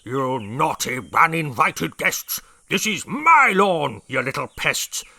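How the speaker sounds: loud, slow blustering rhyme; shouting. A narrator's reading. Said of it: "shouted at the termites".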